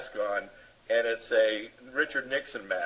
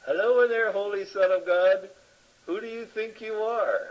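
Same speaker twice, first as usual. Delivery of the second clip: high, bright call into the ego, pitch way up; 7 semitones higher than usual. Acted. The Course calling past the ego to the Holy Son, high call. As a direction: sing out a greeting to someone hidden inside.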